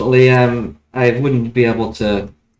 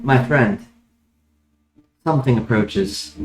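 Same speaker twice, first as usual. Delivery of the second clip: talking tree; 4 dB quieter than usual. Acted. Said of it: "The tree speaks to you".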